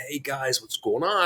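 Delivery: easygoing hello, voice lifted and soft; friendly. Retold or imitated. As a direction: lightly imitate a friendly star saying hi. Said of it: "he's so friendly".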